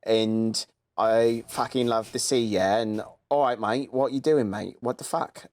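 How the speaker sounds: mock Essex accent, matey and chatty. Shown as a demonstration. Showing a friend how The Only Way is Essex cast talk, mock Essex accent. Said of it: "they're all talking like this".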